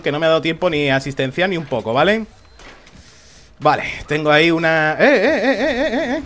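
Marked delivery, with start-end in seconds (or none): 5.0-6.2 high rapid alarmed calls; alarmed calling out. Real, not acted. Alarmed call in game.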